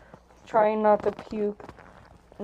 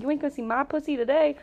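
higher, fast, sassy refusal; sassy drunk; 7 semitones higher, 4 dB louder, faster than usual. Retold or imitated. Drunk woman sasses the driver, higher and quick. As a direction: toss it off with drunk sass.

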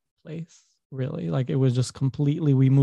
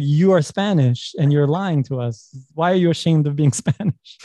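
accusing classmates; 4 dB louder than usual. Retold or imitated. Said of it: "They're like".

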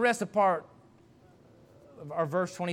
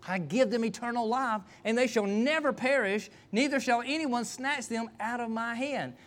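raised, measured preaching voice; scripture proclamation; 5 semitones higher than usual. Real, not acted. Preacher quoting the words of Jesus to the congregation, scripture proclamation. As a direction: proclaim the verse with conviction.

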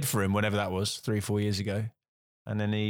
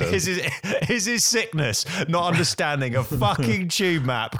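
mock incredulous, laughing through it; incredulous sarcastic rant about the sick excuse; 4 semitones higher than usual. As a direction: sneer at the excuse.

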